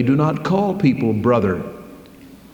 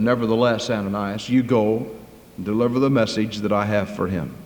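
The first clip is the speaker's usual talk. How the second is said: a hint of God quietly overruling; the Lord's voice; 2 semitones lower, 4 dB quieter than usual. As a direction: speak gently but with final authority. Voice of the Lord answers.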